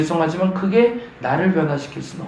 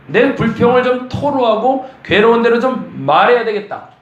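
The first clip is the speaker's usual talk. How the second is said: higher, louder exasperated complaint; Job complaining; 7 semitones higher, 4 dB louder than usual. Acted. Voicing Job's complaint to God, exasperated and louder. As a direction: let out the grievance at last.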